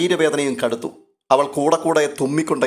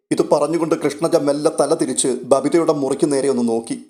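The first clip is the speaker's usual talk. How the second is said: ordinary delivery, nothing marked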